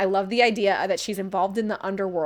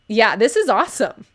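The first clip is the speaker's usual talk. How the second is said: loud praise; 5 dB louder than usual. Real, not acted. Streamer praising a summary.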